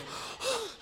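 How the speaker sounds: high, sharp gasp; mock shocked gasp. Mimes listener's shocked gasp.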